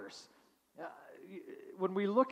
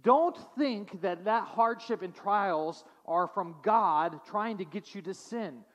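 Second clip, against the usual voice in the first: raised, earnest exhortation; James exhorting; 4 semitones higher, 4 dB louder than usual. Retold or imitated. James urging suffering believers, earnest and raised. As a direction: plead with them, pressing each word. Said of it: "he's saying".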